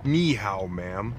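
clumsy American-accented Chinese greeting; foreigner mandarin. Real, not acted. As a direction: tourist Mandarin, English vowels. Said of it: "all I really know how to say is".

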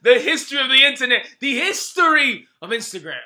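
booming ring announcer intro; lucha libre announcer. Pretend. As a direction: hype it up like a wrestling host.

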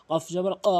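"ক" pushed out from back of throat; pushed qaf. Shown as a demonstration. Teacher showing learners qaf, "ক" with a push. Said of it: "ধাক্কা দিয়ে উচ্চারণ করবেন".

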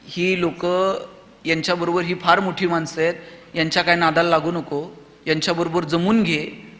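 low, soft cautious mother; lightly acted, subdued counsel to keep out of trouble; Jijau. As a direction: quietly advise your son to play safe. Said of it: "जर जिजाऊ शिवाजी राजांना म्हणल्या असत्या".

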